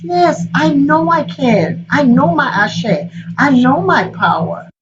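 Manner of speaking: lightly voiced goddess asserting her power; confident Oshun. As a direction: claim your power calmly. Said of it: "She says".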